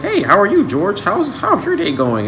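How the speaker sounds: high-pitched mock-proper small talk; all proper. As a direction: put on an overly proper, high greeting voice. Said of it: "being all proper".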